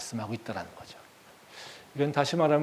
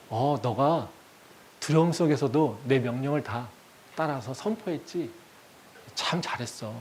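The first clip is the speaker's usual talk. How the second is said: gentle comforting God. Acted. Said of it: "이렇게 나한테 오셔서".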